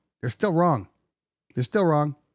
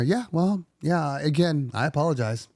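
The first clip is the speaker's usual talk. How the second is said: lightly voiced flat rep, higher at first; bored apology; 4 semitones higher than usual. Phone rep brushing off an angry caller, insincere. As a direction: shrug it off insincerely. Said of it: "they're just sitting there".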